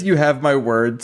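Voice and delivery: confident. Retold or imitated. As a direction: imitate someone confidently giving their word. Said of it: "so confidently".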